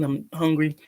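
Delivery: chewing between words; mouth full. Real, not acted. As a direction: talk through a mouthful of food. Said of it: "Sorry, I'm eating".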